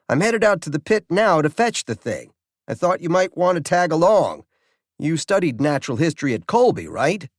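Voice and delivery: a world-weary warden calling late at night; cynical warden. Acted. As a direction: rattle off the news like it's routine. Volk continues.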